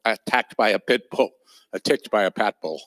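"attacked by a pit bull" slow and stumbling over the words; fumbling the phrase, very slow; tongue-tied stumble. Real, not acted. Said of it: "Easy for me to say".

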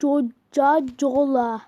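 slow, drawn-out Coca-Cola; mock ad voice. Doing a mock advert for the chatbot. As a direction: announce it like a commercial. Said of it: "Reklam yapıyorum".

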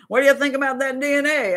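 a light mock Italian accent. Italian jurors in the jury room, mock Italian accent. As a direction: jokingly put on an Italian accent. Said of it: "so they say it with an Italian accent".

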